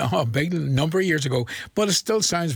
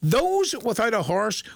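slow, drawn-out riddle line; "Those" stretched with a lingering rise; dramatic riddle delivery; 4 semitones higher, slower than usual. Shown as a demonstration. Host poses a riddle to listeners, slow and teasing. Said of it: "I'm asking you".

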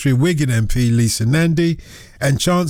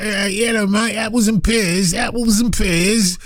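hammed-up Cockney, higher and shouted; mock Cockney; 4 semitones higher, slower than usual. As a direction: play up a silly Cockney mate on purpose. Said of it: "they don't speak like".

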